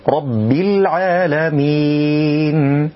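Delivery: slow chant of "رب" with firm bb and a pure i; doubled ba, clear kasra. Shown as a demonstration. Reciter models for learners, weighted ba and full kasra. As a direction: lean on the b in "رب", then stretch العالمين. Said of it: "مع تحقيق الكسر".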